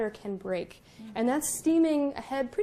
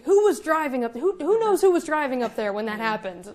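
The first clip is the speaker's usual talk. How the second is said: mock grumbling; 6 dB louder than usual. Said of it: "The cooks were grumbling".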